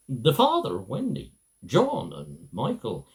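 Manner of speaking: lilting storybook narration with wide rises and falls; reading to children. Acted. Husband reading his wife's childhood book aloud, storybook narration. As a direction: tell it like a bedtime story for little ones.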